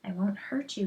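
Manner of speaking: soft unvoiced reassurance; calm a frightened creature; gentle whispered promise; soothing whisper. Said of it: "he said".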